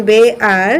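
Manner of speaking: বেয়ার with an "e" glide into ar; E-vowel pronunciation. Shown as a demonstration. Teacher demonstrates the e sound, বেয়ার as bay-ar. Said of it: "উচ্চারণটা হচ্ছে একারের মতো".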